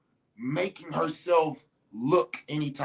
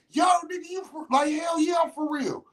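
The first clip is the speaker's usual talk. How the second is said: high-pitched shouted back-and-forth; high mock exchange; 10 semitones higher than usual. Friends questioning him, high shouted voices.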